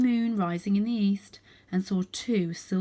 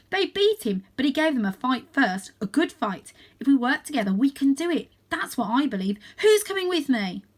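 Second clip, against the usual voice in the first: louder, higher call to arms; rallying call; 6 semitones higher, 6 dB louder than usual. A narrator's reading. Varjak calls the family to join him, loud and rallying. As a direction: rouse them to follow.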